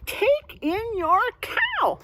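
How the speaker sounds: high, slow put-on old man; lightly voiced wise old man; wise old man advising. Wise old man advising the lady, slow put-on voice. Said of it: "He wants her to take in a cow".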